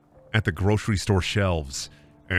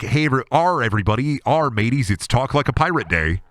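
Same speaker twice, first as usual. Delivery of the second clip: louder pirate-day announcement, hammed up; mock pirate kid; 3 dB louder than usual. Know-it-all kid greeting everybody on pirate day, hammed up. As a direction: announce it like an eager nerd pirate. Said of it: "Same kid who's like".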